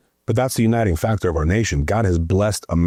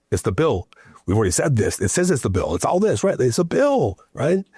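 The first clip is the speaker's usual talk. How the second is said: exasperated; 5 semitones higher than usual. Retold or imitated. Exasperated repeating to voters.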